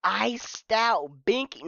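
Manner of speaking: slow stretched question in disbelief; slowly drawn out incredulous echo; disbelieving repeat. Real, not acted. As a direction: repeat it like you can't believe it. Stunned repeat of a phrase.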